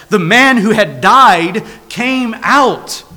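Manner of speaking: "died came out" drawn out slowly for weight; slow emphasis. Real, not acted. Preacher urging the church to look at the miracle, slow emphasis. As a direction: stretch "came out" slowly so it sinks in.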